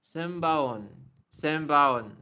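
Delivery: "Senbaon" loud, "ba" sliding into "on" like "bawon"; W-glide demonstration. Shown as a demonstration. Teacher creating the W sound, loud glided pronunciation. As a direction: say "Senbaon" firmly, letting a W form before "on". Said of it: "you kind of create the W sound".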